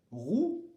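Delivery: "roux" ending on the OU vowel, no X; silent X. Shown as a demonstration. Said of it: "on ne dit pas le X".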